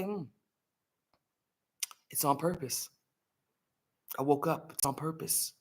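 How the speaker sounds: soft, understated punchline with pauses; comedic deadpan. Retold or imitated. Dad continuing his morning joke after a pause, quietly deadpan. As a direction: let it land quietly after a long pause. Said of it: "he does this comedic pause".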